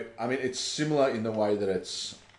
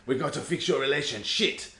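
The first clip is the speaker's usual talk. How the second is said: high, hammed-up self-help doctor voice; over-the-top Doctor Hakim; 6 semitones higher than usual. Telling her co-host about the game's talking book, high hammed-up guru voice. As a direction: ham it up like a pushy relationship guru. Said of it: "like, way over the top".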